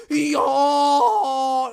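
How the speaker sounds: high, loud yo; mock freak-out yell. Mocking the companies freaking out with a yell. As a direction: bark it in a hammed-up panic. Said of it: "They're like".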